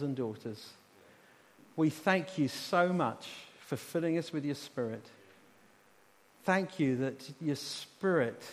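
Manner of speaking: measured, earnest public thanksgiving; fervent prayer. Real, not acted. Preacher thanking Heavenly Father for adoption, fervent prayer. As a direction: open strong, then give thanks phrase by phrase.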